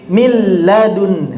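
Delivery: min ladun read slowly, nun fully merged into the l; slow teacher model of "min ladun"; tajwid demo. Shown as a demonstration. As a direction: stretch "min ladun" into "mil-ladun", no n sound. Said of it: "Contoh pada kalimat".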